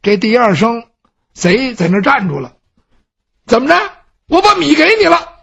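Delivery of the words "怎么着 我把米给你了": scared thief. Acted. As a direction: blurt it out in a fright. Frightened thief answers.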